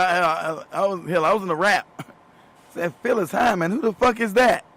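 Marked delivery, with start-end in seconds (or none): 3.0-4.6 higher-pitched retold disbelief; mock incredulous. Retelling his reply to a friend about a star, incredulous. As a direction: act out being totally clueless.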